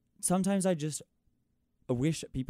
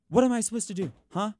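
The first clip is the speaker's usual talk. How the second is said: much higher and louder, an exasperated cry; exasperated outburst; 9 semitones higher, 4 dB louder than usual. Real, not acted. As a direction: fling the question out in disbelief. Exasperated rhetorical question.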